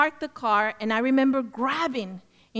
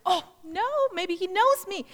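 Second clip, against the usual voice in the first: higher-pitched mock worry; nervous thought; 7 semitones higher than usual. Woman fearing the pastor knows her, nervously. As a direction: re-enact a flustered inner "uh-oh". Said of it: "So I was really nervous".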